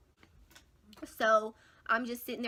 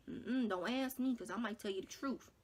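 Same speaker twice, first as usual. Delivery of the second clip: quiet warning; 5 dB quieter than usual. Retold or imitated. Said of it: "And I'm like".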